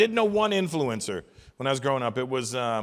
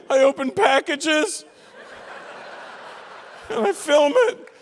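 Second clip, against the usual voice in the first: much higher, loud, slow whining shout; whiny young influencer; 12 semitones higher, 4 dB louder, slower than usual. Retold or imitated. Comic mocking a young influencer yelling back, high whiny shout. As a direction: play a huffy kid defending himself.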